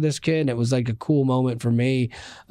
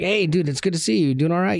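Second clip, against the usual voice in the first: friendly retold greeting; 5 semitones higher than usual.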